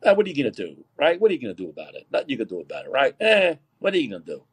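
mock dismissive shrug; Fauci. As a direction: toss it off like a helpless shrug, pitch falling away.

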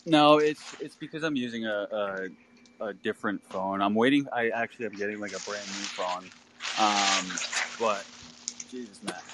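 muffled phone line; talking through a bad phone; bluetooth headset mic. Real, not acted. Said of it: "You sound like you're underwater".

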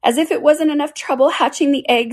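high-pitched exasperated bird; aggrieved pigeon. A narrator's reading. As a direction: complain high as a put-upon mother bird.

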